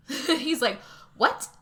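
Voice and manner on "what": shocked yelp, higher. Retold or imitated. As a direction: blurt it out in shock. Husband shocked by confession.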